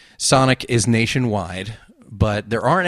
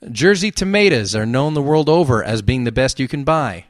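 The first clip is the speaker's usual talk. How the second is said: New Jersey accent, "tomatoes" as "tuh-MAY-duhs"; 3 semitones higher, 4 dB louder than usual. Shown as a demonstration. Host rereading the tomato fact for emphasis, Jersey accent. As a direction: lay on a bit of Jersey, louder. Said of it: "I'm gonna read with a Jersey accent".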